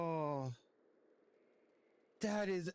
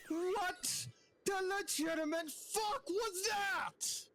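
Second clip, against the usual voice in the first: shocked laughter; 13 semitones higher than usual. Real, not acted. Shiny hunt disbelief.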